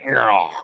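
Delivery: mock strangled "argh"; comic choked growl; imitated jamming groan. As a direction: imitate clippers grinding to a halt. Imitates clippers jamming mid-cut.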